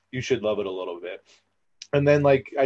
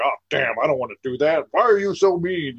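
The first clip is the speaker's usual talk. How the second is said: mock whiny complaint, rising higher; whiny skipper; 4 semitones higher, 5 dB louder than usual. Skipper whining at being handed a celebrity, mock whiny. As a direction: whine it like a put-upon coworker.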